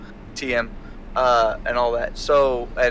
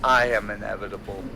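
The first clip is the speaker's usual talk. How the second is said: voice from the sky; 6 semitones lower, faster than usual. Acted. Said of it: "you hear from the sky".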